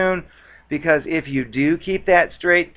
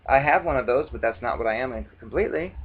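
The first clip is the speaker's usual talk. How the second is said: calm deadpan reply; 2 semitones lower, 5 dB quieter, faster than usual. Retold or imitated. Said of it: "I just say".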